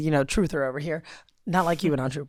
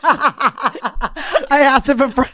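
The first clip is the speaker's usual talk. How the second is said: laughing hard, words stretched out and higher; giggling; 6 semitones higher, 4 dB louder, much slower than usual. Real, not acted. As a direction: talk through helpless laughter. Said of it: "I gotta giggle out of that".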